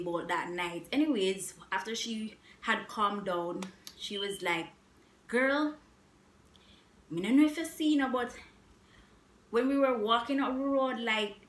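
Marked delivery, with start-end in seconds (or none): 5.3-11.4 friend's excited voice. Retold or imitated. Friend's voice retold.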